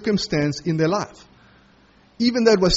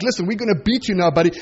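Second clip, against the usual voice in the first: rising to a high, loud panicked cry; frantic mock yell; 5 semitones higher, 4 dB louder, faster than usual. Preacher imagining himself crying out while being dragged, loud and panicked. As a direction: yell it like a man begging not to be beaten.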